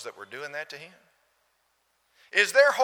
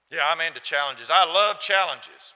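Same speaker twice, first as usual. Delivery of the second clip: put-on cocky young person; 8 dB louder than usual. Young person answering eagerly.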